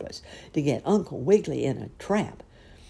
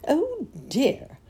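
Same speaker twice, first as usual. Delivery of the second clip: high-pitched, mild dismay; 11 semitones higher, 3 dB louder than usual. A narrator's reading. Uncle Wiggily finding himself caught, high dismayed voice. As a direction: sigh it out high in worry. Trapped rabbit thinks in dismay.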